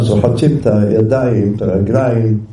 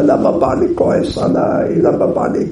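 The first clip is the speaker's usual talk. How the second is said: crying. Retold or imitated. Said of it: "והייתה בוכה".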